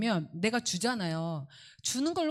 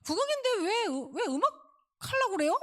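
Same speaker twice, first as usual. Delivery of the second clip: high-pitched first grader questioning the teacher; 따지는 초등 일 학년; 14 semitones higher than usual. Retold or imitated. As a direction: imitate puzzled kids protesting in a high voice. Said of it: "애들이". (높은 목소리로 따져 묻는 아이 흉내)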